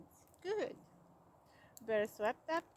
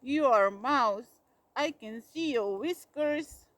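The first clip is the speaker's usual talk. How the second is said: accusing shout; 10 dB louder than usual. A narrator's reading. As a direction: hammer out who he is. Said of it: "he shouted".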